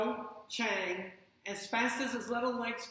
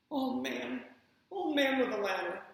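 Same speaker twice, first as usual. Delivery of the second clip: shouting; 4 semitones higher than usual. Acted. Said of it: "he shouted".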